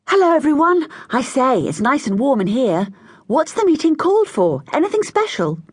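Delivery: high, loud brisk hello; march in and greet everyone; hearty greeting. A narrator's reading. Boy marching into the warm shed, hearty high greeting.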